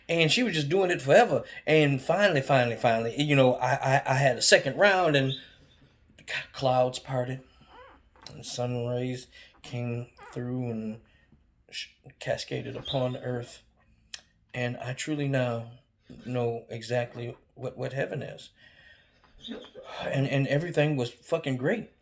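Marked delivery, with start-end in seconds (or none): 6.5-18.5 softer, slow, dreamy awe; mock reverent hush. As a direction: describe heaven in hushed awe. Mock-reverent heaven description.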